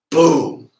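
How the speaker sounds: sudden high, loud boom; gunshot boom. Retold or imitated. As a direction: blast it out like a rifle shot. Imitating a sniper shot.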